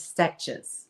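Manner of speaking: "stitches" said as "stetches"; Scottish lady's pronunciation. Retold or imitated. Showing viewers how the Scottish lady says it, imitated pronunciation. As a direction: copy her vowel in "stitches", e for i. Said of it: "She says stitches".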